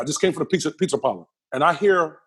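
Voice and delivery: normal talking voice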